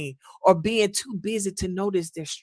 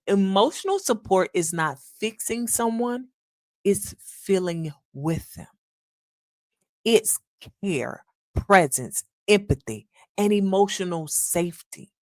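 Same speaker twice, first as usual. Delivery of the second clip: slower. Shown as a demonstration. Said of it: "Let me say it a little slower".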